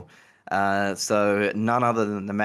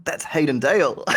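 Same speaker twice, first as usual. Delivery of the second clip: raised, louder reveal of a name; emphatic reveal; 6 semitones higher, 6 dB louder than usual. Retold or imitated. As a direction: drop the name like a bombshell. Carol reveals who it was.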